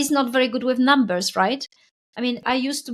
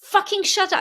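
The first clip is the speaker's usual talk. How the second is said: irritated swearing; 6 semitones higher than usual. Retold or imitated. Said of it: "really swearing at it".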